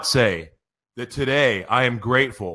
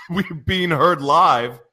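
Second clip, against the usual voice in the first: laughing disbelief; 6 semitones higher, slower than usual. Real, not acted.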